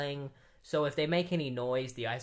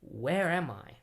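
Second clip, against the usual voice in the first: unvoiced whisper of "Where am I?"; whispered cliffhanger; slower than usual. Leaving listeners on Wally's cliffhanger, whispered. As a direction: breathe it as a secret. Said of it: "cliffhanger of Wally being like".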